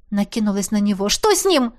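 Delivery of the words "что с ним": anxious question. A narrator's reading. She rushes at him.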